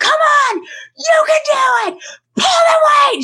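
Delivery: put-on very high, drawn-out scream. Retelling a gym workout, imitating someone screaming encouragement. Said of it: "She's screaming like the whole gym can hear her".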